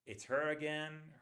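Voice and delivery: "her" said as "er", h dropped; reduced her. Shown as a demonstration. Teacher demonstrating "her" reduced to "er". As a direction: say "it's her again" with "her" squeezed to "er". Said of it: "That's the way we say it".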